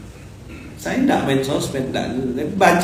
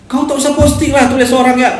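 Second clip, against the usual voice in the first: mock scolding; 10 semitones higher, 5 dB louder than usual. Mocking reply to self-praise post.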